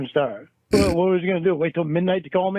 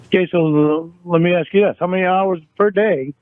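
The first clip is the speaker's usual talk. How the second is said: louder, hammering question; heated interrogation; 5 dB louder than usual. Acted. Boyfriend interrogating Jamie about call hours, angry and raised. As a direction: grill her, voice raised. In-character quarrel over texts.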